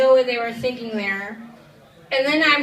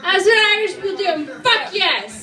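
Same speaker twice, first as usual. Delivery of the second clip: rallying shout; 4 semitones higher than usual. Real, not acted. Repeated rallying line.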